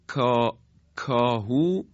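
"کاهو" with k further back, not palatal; near-correct kaf. Shown as a demonstration. Teacher shows word closer to correct kaf, backer k. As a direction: open "کاهو" on a plain back k. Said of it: "این کاهو به کاف درست نزدیکتره".

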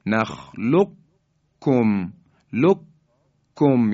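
very slow نخلقکم، لککم with held double k; qaf merged into kaf. Shown as a demonstration. Tajweed teacher repeating the merge for listeners, long double k in نخلقکم. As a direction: drop the q in نخلقکم, doubling the k firmly.

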